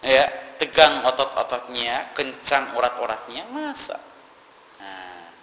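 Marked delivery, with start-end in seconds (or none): 0.0-4.0 incredulous objectors. Retold or imitated. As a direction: play the deniers scoffing, pitched up and loud. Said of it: "kata mereka". (meniru orang yang tidak percaya, nada tinggi dan keras)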